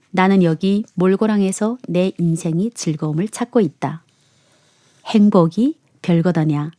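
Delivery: measured, clearly phrased story reading; letter reading. A narrator's reading. Host reading a letter about a Jeju restaurant, narrating evenly. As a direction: read it aloud like a personal essay.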